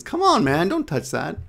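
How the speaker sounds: mild, coaxing protest. Shown as a demonstration. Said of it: "could actually be softer or stronger".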